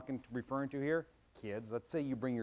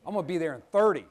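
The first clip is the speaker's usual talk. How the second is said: laughing hurried promise; 3 semitones higher, 9 dB louder, faster than usual. Retold or imitated. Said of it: "So what did I say?".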